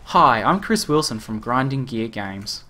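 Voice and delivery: slow, lightly voiced developer greeting; a hint of a game dev introducing himself, taken slowly; Chris Wilson impersonation. Streamer doing a slow, mild imitation of the game developer for chat. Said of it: "My Chris Wilson impersonation".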